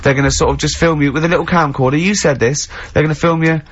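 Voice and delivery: outraged star demanding respect; entitled celebrity. Pretend. Ricky mock diva rant at Carl.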